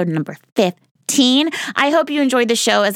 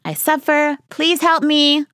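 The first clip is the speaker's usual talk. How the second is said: strained high plea; 8 semitones higher, slower than usual. Shown as a demonstration. Saying the hard mantra to a loved one, strained and high. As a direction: voice jumps much higher, straining on the words. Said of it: "See, I can't even say it right".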